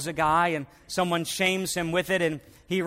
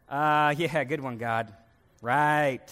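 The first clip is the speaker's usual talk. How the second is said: sarcastic; 3 semitones lower, slower than usual. Acted. Moses mocks God's instruction.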